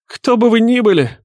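high, loud, sickeningly bleating plea; grating bleat pitched far above normal. A narrator's reading. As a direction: plead like a bleating coward. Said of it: "до тошноты противный блеющий голос".

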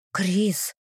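soft whisper of his name. A narrator's reading. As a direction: breathe his name under your breath. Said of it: "шепнула я".

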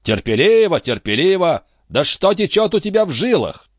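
a high-voiced captain grilling his friend; excitable old sea captain. A narrator's reading. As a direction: press him like a fussy old skipper. Antifer scoffs at patience.

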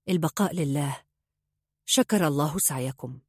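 flat formal condolence, no feeling in it; blank, empty mourning formula; expressionless. A narrator's reading. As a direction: recite it like a duty. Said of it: "قالها بملامح خالية من أي تعبير".

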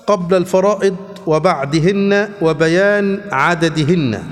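slow, measured classical Arabic reading; formal hadith reading. Acted. Teacher reading hadith text to his class, slow formal reading. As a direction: read the chapter out slowly, phrase by phrase. Reads hadith book aloud.

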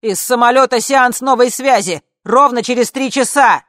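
very loud, high call; shouting. Acted. Guard calling from the dark, very loud. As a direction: shout it out of the darkness. Guard announcing next contact.

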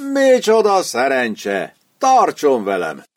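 student pulls the sergeant along in mock enthusiasm. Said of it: "lelkesedett a diák".

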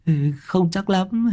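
slow, high, then a guilty giggle; sheepish laughing admission. Acted. Long caught out, slow high confession with a giggle.

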